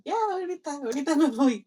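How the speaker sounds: mock fake compliance. Mocking fake compliance to him.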